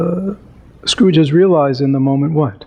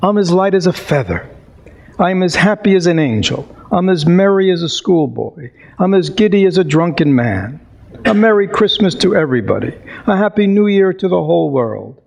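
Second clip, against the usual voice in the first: higher, quicker, giddy Scrooge; giddy joy; 3 semitones higher than usual. Acted. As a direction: bubble over like a giddy schoolboy. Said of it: "He's just frisking around his sitting room".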